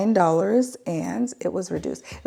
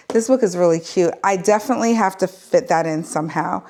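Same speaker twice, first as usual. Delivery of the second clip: out of breath. Real, not acted. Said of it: "I'm out of breath".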